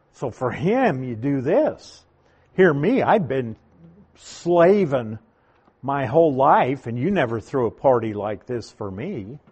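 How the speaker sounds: mildly resentful, with "slaving" set apart; jealous complaint. Acted. Jealous brother to father about the party, mildly aggrieved. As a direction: act out a brother's jealous grievance. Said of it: "So he was very jealous".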